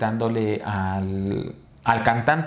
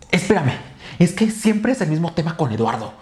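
higher, louder exasperated retort; imitated irritated uncle; 4 semitones higher, 3 dB louder than usual. Uncle snapping at his girlfriend over Eduardo, imitated irritation. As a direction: act out an uncle cutting in, defensive and cross. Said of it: "muy como con un coraje".

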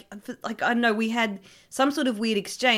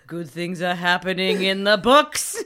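creepy clerk voice; 5 dB louder than usual. Pretend. Creepy Coles line, reused.

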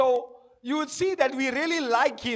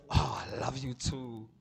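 mock swoon; 12 semitones lower, 9 dB quieter than usual. Mocking swooning woman.

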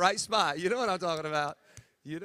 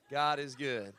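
laughing; 3 semitones lower, slower than usual. Shown as a demonstration. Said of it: "we just say it in English".

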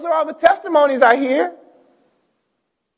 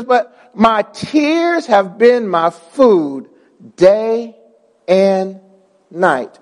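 sorrowful reading; 3 semitones lower, much slower than usual. Acted. Reads the verse slowly and low.

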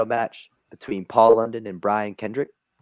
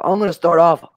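lightly higher, pushy interviewer; a hint of a brash sports host; mildly hammed-up TV host; Stephen A. Smith; 6 semitones higher than usual. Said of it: "And Stephen A. Smith says".

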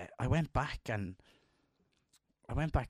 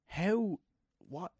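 high, loud, hammed-up bewilderment at how fast kids grow; mock disbelief; 9 semitones higher, 4 dB louder than usual. Parent staring at grown kids, high mock disbelief. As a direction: squeak out a parent's overwhelmed disbelief. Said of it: "and you're like".

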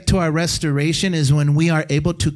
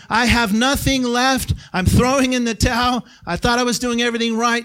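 despairing cry; 6 semitones higher than usual. Retold or imitated. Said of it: "when we're saying".

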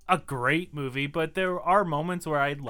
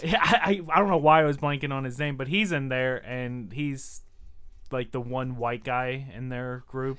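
coughing through the words; choking. Real, not acted. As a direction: talk while choking on a drink. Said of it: "I'm, like, choking over here".

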